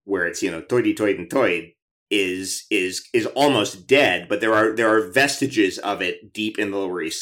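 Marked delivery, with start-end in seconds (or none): 0.6-1.7 put-on old New York accent. Shown as a demonstration. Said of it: "Bowery Boys New York accent".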